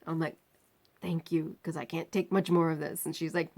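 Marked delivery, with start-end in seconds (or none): 1.0-3.1 soft, pained low voice; barely able to speak; weak and quiet. Retold or imitated. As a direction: narrator in agony asking the nurse. Weak patient thanking nurse.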